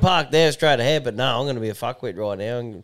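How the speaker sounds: lightly voiced smug driver taunting; mock smug parker voice. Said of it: "having a little fetish going around going".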